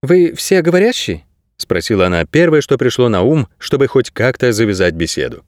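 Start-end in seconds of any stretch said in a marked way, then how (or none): 0.0-1.2 put-on much higher girl's voice; high-pitched young heroine; voiced girl character. A narrator's reading. Narrator voices the girl Kase.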